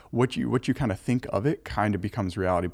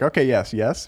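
conceding; 3 semitones higher, 5 dB louder than usual. Shown as a demonstration. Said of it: "you, like, concede".

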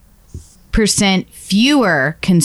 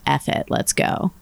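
hushed voice; 5 semitones lower, 8 dB quieter than usual. Retold or imitated. Quoting everyone's carefree mentality.

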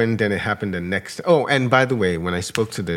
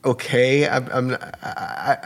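hesitant, higher-pitched puzzled okay; retold confusion; 4 semitones higher, slower than usual. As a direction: act out being thrown, stumbling on the words. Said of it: "I was confused".

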